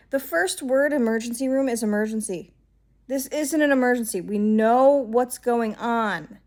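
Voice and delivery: exasperated, insistent retort; retold anger. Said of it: "I got so mad this day".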